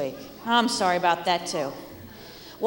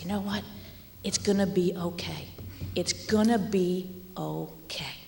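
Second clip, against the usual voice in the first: gentle reassurance; 2 semitones lower, 5 dB quieter than usual. Retold or imitated. Comforting a crying child.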